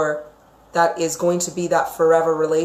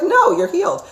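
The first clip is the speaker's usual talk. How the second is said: mock firm healer; 12 semitones higher than usual. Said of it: "You wanna just be like".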